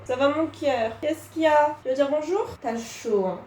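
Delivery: high, loud coaxing pet voice; pet talk. Real, not acted. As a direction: coo at your cat. Talking to her pet.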